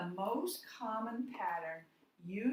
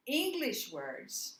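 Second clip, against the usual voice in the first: English words drawn out slowly and raised; slow emphasis; 5 semitones higher, 4 dB louder, slower than usual. Shown as a demonstration. Teacher stressing a key term to the class. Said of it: "teacher stressing key term".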